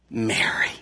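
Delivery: a soft breathy whisper of the name, low and slow. Acted. Jesus speaking Mary's name at the tomb, whispered. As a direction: breathe the name as if only she should hear.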